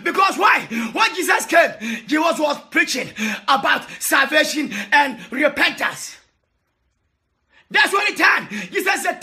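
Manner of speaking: impassioned sermon, calling out to the flock; a pastor pleading and shouting to his people; fervent preaching. Real, not acted. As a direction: preach it with full fire. Preaching at full force.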